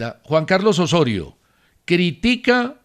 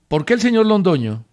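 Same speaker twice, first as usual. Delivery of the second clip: mildly indignant question, pitched higher; half-angry reading; 4 semitones higher, 3 dB louder than usual. Retold or imitated. Radio host reading out a listener's complaint email, half-angry. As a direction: read it with a touch of annoyance. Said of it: "lo dice así medio bravo".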